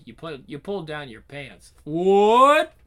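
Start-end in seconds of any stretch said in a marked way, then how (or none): 1.8-2.7 loud, high disbelieving cry; shocked. Acted. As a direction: gasp it out in shock. Shocked outburst.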